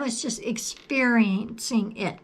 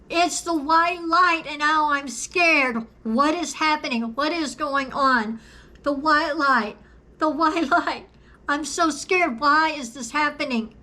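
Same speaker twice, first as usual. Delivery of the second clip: higher, panicky retelling of a scared cry; retold frightened shout; 4 semitones higher than usual. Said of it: "I shouted out".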